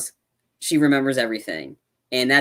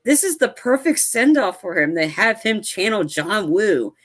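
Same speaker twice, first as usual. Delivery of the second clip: excited; 5 semitones higher than usual. Retold or imitated. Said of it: "I was like".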